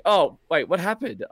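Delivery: mate's high-pitched puzzlement, imitated; surprised questioning. Mate finds him without ship.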